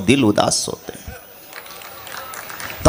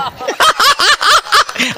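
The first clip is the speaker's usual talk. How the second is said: high burst of laughter. Real, not acted. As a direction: crack up at the joke. Laughs at Nitish joke.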